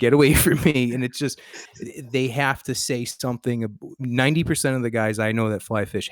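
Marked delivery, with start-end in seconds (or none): 0.0-0.9 loud, irritated brush-off; upset retold dismissal. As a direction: send him away, still worked up. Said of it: "I got upset for a minute".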